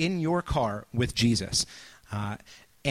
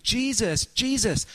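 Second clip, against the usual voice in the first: high, urgent calling out of a name; mock scream; 10 semitones higher, slower than usual. Panicked driver screaming at a sleeping Jesus, high pitched yell. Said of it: "you're screaming".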